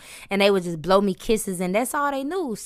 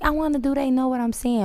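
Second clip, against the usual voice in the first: excited disbelief; 6 semitones higher than usual. Retold or imitated. Artist marveling that foreign fans understand, excited. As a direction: blurt it out in wonder. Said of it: "I just be like".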